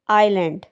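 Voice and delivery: आइलैंड pronounced eye-land, with no S; silent S. Shown as a demonstration. Teacher showing the correct pronunciation, S silent in आइलैंड. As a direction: say आइलैंड leaving the S unsounded. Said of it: "इसकी correct pronunciation होगी".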